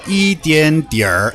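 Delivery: slow, drawn-out Beijing-style 一点点儿; imitated Beijing accent; Beijing Mandarin accent. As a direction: lean into a Beijing r-coloured ending. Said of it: "Beijing Mandarin".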